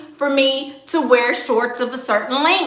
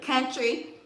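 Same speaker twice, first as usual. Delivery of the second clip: a little country; 3 semitones higher, 3 dB quieter than usual. Shown as a demonstration. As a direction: drop into your own relaxed country talk. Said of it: "I can talk like myself".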